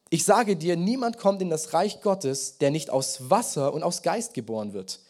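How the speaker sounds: solemn scripture reading from the pulpit. Acted. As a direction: read the passage out like proclaiming it. Reads Jesus' words aloud.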